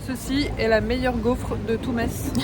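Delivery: slow, loud, grand announcement; mock announcement. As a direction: proclaim it like a food critic. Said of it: "mock announcement to the camera".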